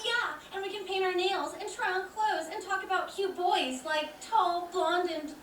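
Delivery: mock-girly enthusiasm; sarcastic. Girl rebuffing an offer of friendship, sarcastic gushing. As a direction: gush insincerely, slowing at the end. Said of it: "she doesn't understand sarcasm".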